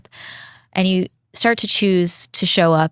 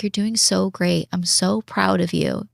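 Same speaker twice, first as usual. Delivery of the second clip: gentle self-praise; 2 semitones higher than usual. Retold or imitated. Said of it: "just being like".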